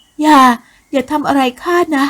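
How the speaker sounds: high, loud pleading cry, slowing down; frightened plea. Acted. Woman begging the soldier not to hurt her, frightened high plea. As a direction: beg in fear with the voice up high. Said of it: "กล่าวด้วยความกลัว".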